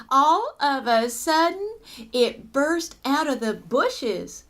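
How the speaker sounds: lively, suspenseful storytelling; story read-aloud. Acted. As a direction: read it to children with punched key words. Reads story to children.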